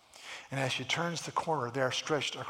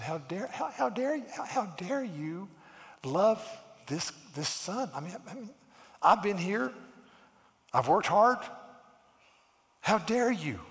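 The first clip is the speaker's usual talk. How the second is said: acted indignation, pitched higher, halting; ticked-off older brother; 5 semitones higher than usual. Older brother protests the returning son's welcome, mock indignant. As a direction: sputter in mock outrage, word by word. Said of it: "got ticked off".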